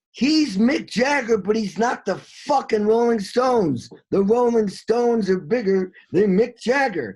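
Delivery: fired up, pitching it way up about the lead singer; excited. Real, not acted. Telling his friend about the singer, excited. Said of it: "I'm being excited".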